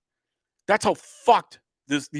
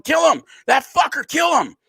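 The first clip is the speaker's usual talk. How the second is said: crowd yelling; 12 semitones higher than usual. Retold or imitated. Comedian imitating the mob screaming at Kyle, high shout. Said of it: "They were yelling".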